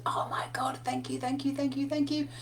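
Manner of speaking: breathy grateful whisper, barely voiced; retold whisper. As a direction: whisper your thanks into a long hug. Son grateful, hugging her.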